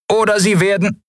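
a guard robot rasping a threat; rasping machine guard. Acted. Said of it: "schnarrten sie". (schnarrende Wächtermaschine, abgebrochen)

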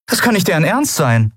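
you can't believe how small the ship is; disbelief. A narrator's reading. Endriel sees the tiny hospital ship, in disbelief. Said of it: "Endriel konnte es nicht glauben".

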